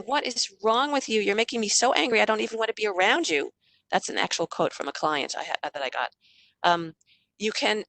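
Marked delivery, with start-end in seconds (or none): 0.1-3.5 exasperated parent. Shown as a demonstration. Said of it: "instead of saying".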